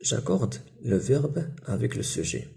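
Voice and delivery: reading the exercise heading slowly; slow dictation. Shown as a demonstration. Teacher slowly reads the exercise instruction aloud to pupils. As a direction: spell out each word for the class. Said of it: "ندوزو للأورتوغراف".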